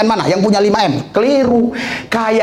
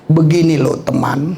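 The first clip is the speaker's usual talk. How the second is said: halting pompous talk; 5 semitones lower than usual. Retold or imitated. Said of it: "Setelah S tiga".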